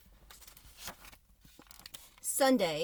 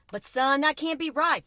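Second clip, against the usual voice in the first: disbelieving; 6 semitones higher, 8 dB louder than usual. Acted. Father protests in disbelief.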